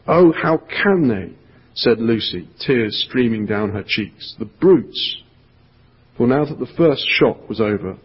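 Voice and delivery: lively, dramatic read-aloud storytelling; storybook reading voice with full character voices; story narration. A narrator's reading. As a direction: read it like a gripping tale to children. Reads the Narnia passage aloud.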